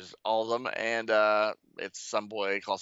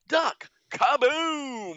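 much higher, louder comic yell of alarm; hammed-up warning shout; 5 dB louder, much slower than usual. Dev M warns the team of a bomb, mock shout. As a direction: bellow the warning, then the boom. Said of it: "And Dev M says".

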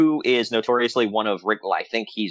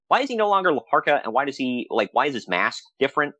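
confused question; 4 semitones higher than usual. Retold or imitated. Retelling own confused question.

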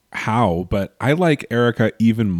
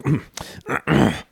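mock throat clear; 4 semitones higher than usual. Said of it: "He just is like".

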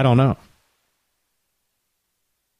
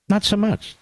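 mocking echo; 8 semitones higher than usual. Host echoing his own line to mock Sununu, lilting. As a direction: tease it back in a lilting mock voice.

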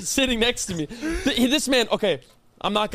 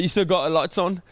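imitated British accent, slightly lower; 3 semitones lower than usual. Repeating the roommate's question in a mock British accent. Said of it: "about having this accent".

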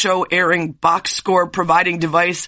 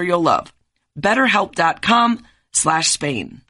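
ad read. Acted. Sponsor ad read.

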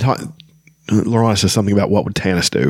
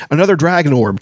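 high-pitched woeful cry; raised, plaintive outburst; wailing; 8 semitones higher, 4 dB louder than usual. A narrator's reading. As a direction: wail it in despair. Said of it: "Taz wailed".

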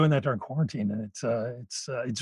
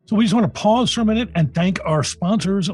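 polished, emphatic podcast promo read; sponsor ad read; 2 semitones higher, 4 dB louder than usual. Acted. Host thanking the show's sponsor, scripted ad read. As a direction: sell it to the listeners, punching key words.

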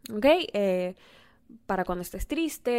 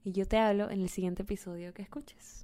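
soft intimate whisper; hushed farewell to listener; 9 dB quieter than usual. Real, not acted. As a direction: whisper the goodbye close. Intimate sign-off.

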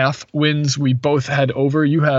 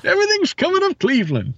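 hippie Midwestern voice. Retold or imitated. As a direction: sing it out like a spaced-out hippie. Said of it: "the hippie Midwestern voice you got right there".

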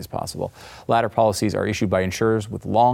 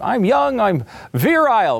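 mock cocky young guy; 12 semitones higher, 4 dB louder than usual. Mocking a cocky listener.

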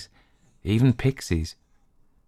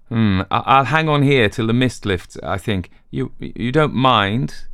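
hesitant Dayton; 4 semitones higher than usual. Acted. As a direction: stall for time awkwardly.

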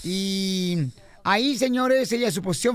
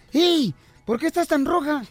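lightly voiced, higher flea; other flea; 4 semitones higher than usual. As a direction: call out a question as a curious flea. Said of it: "le dice la otra pulga".

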